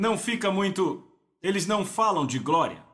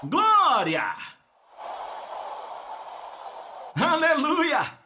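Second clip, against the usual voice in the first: shouted praise; 9 semitones higher, much slower than usual. Pretend. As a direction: cry out joyfully in the next service. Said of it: "você vai dizer".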